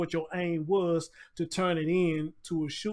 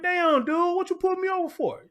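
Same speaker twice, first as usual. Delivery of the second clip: retold exasperation; 13 semitones higher, 6 dB louder than usual. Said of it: "I'm like".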